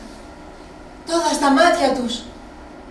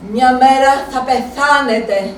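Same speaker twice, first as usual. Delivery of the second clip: slow, deliberate «μέρα» stressed; slow brooding thought; 4 dB louder, slower than usual. Retold or imitated. Inner thought, said slowly. (αργά, στοχαστικά, με έμφαση στο «μέρα»)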